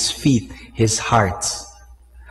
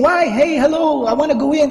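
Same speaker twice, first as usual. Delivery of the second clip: calling for attention; 10 semitones higher than usual. Retold or imitated. Calling to an ignoring guard.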